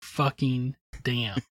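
slow, spaced-out swearing; deliberate quoted curse. Retold or imitated. Co-host repeating the album's curse, slowly and deliberately. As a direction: set each word apart.

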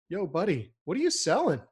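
mock incredulous customer, rising high and loud; loud, high-pitched disbelief from an annoyed prospect; exasperated customer. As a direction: play the fed-up buyer cutting off a pitch. Mocking reaction to scripted salesman.

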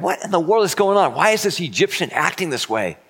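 high, startled question; baffled brothers. Retold or imitated. Brothers startled by Joseph's weeping, asking high and bewildered.

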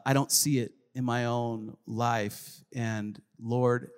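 low, soft confession to God; subdued doubt. Acted. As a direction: quietly admit it, voice sinking low. Voicing a doubting believer to God.

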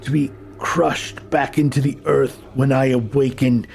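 a cold, ancient voice barely passing for human; almost human voice. Acted. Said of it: "A voice that sounds almost human".

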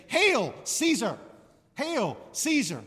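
loud, slow acclamation for the emperor; crowd hailing Caesar. Retold or imitated. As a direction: salute the emperor as he enters the city. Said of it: "People would say".

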